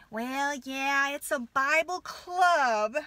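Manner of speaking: mocking sweet, slowed-down voice; cute sounding. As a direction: mimic her sugary spin, drawn out. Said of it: "Make it all cute sounding".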